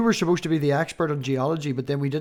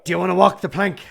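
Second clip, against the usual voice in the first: put-on Irish pirate accent; 4 dB louder, faster than usual. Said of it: "You could do a good pirate".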